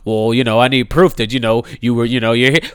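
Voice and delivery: lightly voiced smug cop; mocking police officer. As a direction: imitate the officer's condescension. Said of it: "now you're all like".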